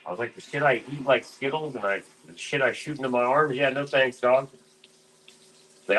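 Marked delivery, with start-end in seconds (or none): 0.3-4.5 higher, scoffing no thanks; mock incredulous refusal. Turning down the doctor's pills, mock disbelief. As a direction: brush off the offer in disbelief. Retold refusal, high mocking.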